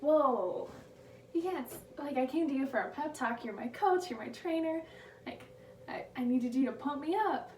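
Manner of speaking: high and loud, indignant disbelief; shocked protest. Retold or imitated. Skier protesting to her trainer, indignant and loud. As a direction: she can't believe her coach said that. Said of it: "And she goes".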